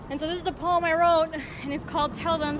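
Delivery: breathless after running; out of breath. Real, not acted. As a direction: speak while catching breath. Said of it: "Sorry, I gotta catch my breath. I ran here".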